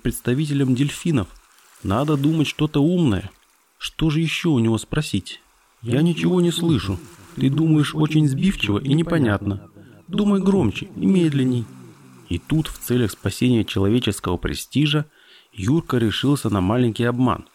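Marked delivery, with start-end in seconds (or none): 5.8-11.7 high, lightly voiced dolphin cub; a hint of a fussy little dolphin; young dolphin voice. Dolphin's voice held.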